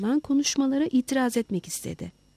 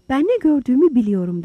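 raised, louder voice, indignant; angry; 3 semitones higher, 8 dB louder, faster than usual. A narrator's reading. Holmes insisting to his doubters on what he saw, angry. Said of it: "dedi Doktor Holmes öfkeyle".

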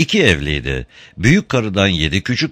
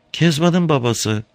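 high voiced old woman asking; timid old woman at the door; old woman's voice; 9 semitones higher than usual. A narrator's reading.

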